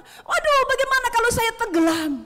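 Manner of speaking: high, loud cry of panic; panicked Peter. Acted. Peter on the water fearing he'll drown, loud panicked cry. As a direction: blurt it out like a man about to sink. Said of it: "Petrus langsung takut".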